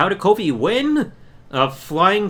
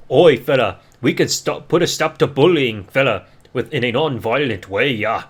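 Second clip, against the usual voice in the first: lower-pitched put-on wrestler voice; Sheamus; 5 semitones lower than usual. Wrestler addressing an anti-bullying event, mock character voice. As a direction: lampoon an anti-bullying spot in a low character voice. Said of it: "Be a Star commercial with Sheamus".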